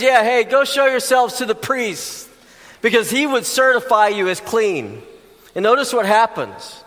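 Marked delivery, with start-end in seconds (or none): 0.0-2.3 casual offhand Jesus. Retold or imitated. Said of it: "Jesus sort of says".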